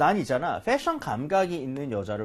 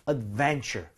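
"adventure" with the stress raised on "ven"; 3 semitones lower, much slower than usual. Shown as a demonstration. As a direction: hit the v-e syllable of "adventure". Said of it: "위, 이에 강세를 올리는 게 맞아요". (adventure의 ven에 강세)

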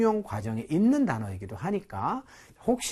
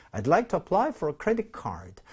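slow practice reading; 2 semitones higher, much slower than usual. Shown as a demonstration. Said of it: "계속 반복적으로 하심으로써".

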